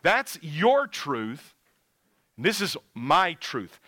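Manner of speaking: slow, stressing your and this with mock smugness; mocking quote. Preacher mimicking a relativist to the congregation, slow and mocking. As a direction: drawl out your and this like a smug skeptic. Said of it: "you ever hear thinking like that".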